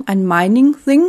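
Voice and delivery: "Mining-Thing" with the "th" said like a German t or s; "Thing" without the English th sound; botched English th. Real, not acted. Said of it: "das war ein schlechtes T H".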